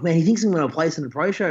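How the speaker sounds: retold freaking out. Athlete ringing friends about the pro show, mildly freaking out. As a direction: relive the excited phone call, lightly. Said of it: "like, freaking out".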